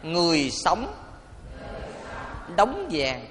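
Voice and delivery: measured phrases with a long pause between; deliberate call-and-repeat delivery; leading repeat-after-me. Real, not acted. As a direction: give each phrase out for the congregation to repeat. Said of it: "Quý vị nói theo thầy".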